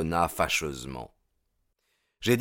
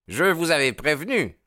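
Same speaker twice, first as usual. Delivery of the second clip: much higher, loud and pleased; gleeful exclaim; 9 semitones higher, 4 dB louder than usual. A narrator's reading. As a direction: crow it out, delighted. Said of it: "s'écria-t-il".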